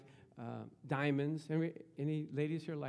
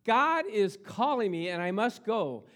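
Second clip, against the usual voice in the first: loud, high, slow ecstatic words of a dying preacher; D L Moody's ecstatic last words, voiced loud and high; dying man's vision; 7 semitones higher, 9 dB louder, slower than usual. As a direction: cry out in rapture at heaven's gate. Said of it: "he woke up and he says".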